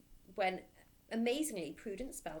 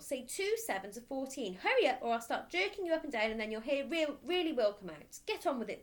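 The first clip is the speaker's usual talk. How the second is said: louder, threatening demand; menacing order; 5 semitones higher, 5 dB louder than usual. Acted. Headmistress threatening the dangling boy, loud and menacing.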